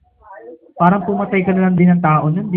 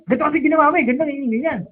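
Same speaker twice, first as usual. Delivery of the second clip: calm explaining; 5 semitones higher, much faster than usual. Shown as a demonstration. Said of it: "sabihin mo sa kanya kung bakit ka nagalit".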